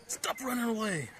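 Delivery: loud, high call after a runaway dog; shouting after the dog. Real, not acted. Owner shouting at his runaway dog Sam, loud high call. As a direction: yell at Sam to come back.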